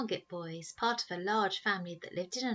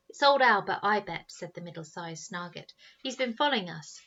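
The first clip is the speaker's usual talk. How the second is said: excited guess; 6 dB louder than usual. Acted. Boy guessing.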